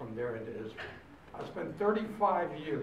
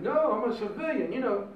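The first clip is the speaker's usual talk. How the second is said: louder and higher, laughing insistence; emphatic refusal; 9 semitones higher, 7 dB louder than usual. Retold or imitated. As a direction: wave off all that crap. Refusing the officer, half laughing.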